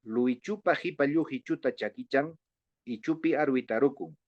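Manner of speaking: rhythmic run with a short break near the end; tongue-twister recital. Shown as a demonstration. Teacher has colleagues try the tongue twister, tongue-twister recital. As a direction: rattle through the syllables evenly. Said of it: "de hablar esta trabalengua".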